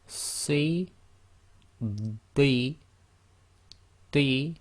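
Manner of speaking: "Si", "di" said with a full, hollow mouth; heavy emphatic letters. Shown as a demonstration. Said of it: "all done with full mouth".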